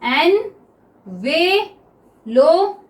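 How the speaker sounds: एनवेलप drawn out very slowly, each syllable held; teacher's slow model of envelope; very slow demo. Shown as a demonstration. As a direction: stretch एनवेलप out for the class. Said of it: "बोल के देखिए एनवेलप को".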